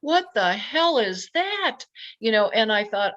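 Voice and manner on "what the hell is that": disbelief. Retold or imitated. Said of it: "saying to the Lord".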